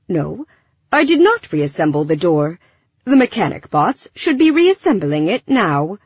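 prim, formal android; polite robot voice. Acted. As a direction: speak like a courteous machine. Alfie answers flatly.

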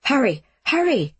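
pressing, high "hurry"; urgent urging. A narrator's reading. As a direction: urge them on in alarm. Urgent call during air raid.

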